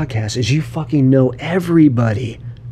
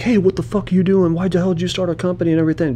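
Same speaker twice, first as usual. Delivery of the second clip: high, fast mock tirade; mock angry call; 6 semitones higher, 3 dB quieter, faster than usual. Imitating a bitter owner calling competitors, high and fast. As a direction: rattle it off like an angry rival. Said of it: "being like".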